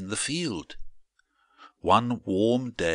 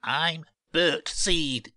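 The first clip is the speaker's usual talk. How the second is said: high, slow, hesitant seed voice; halting high character voice; nervous little seed; 8 semitones higher, slower than usual. A narrator's reading. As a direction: introduce yourself timidly, pitched high. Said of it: "stammered Bert".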